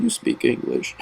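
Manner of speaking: high, breathy disbelieving whisper; a hushed, high mock gasp of disbelief; incredulous aside. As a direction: hiss it in shocked disbelief. Catching the guide's lie.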